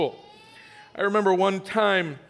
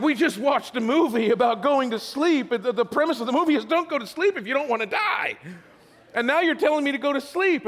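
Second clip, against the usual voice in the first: put-on higher, quick, laughing kid's protest; indignant kid; 5 semitones higher than usual. Boy protesting bedtime to his brother, higher and laughing. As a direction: argue like an outraged nine-year-old.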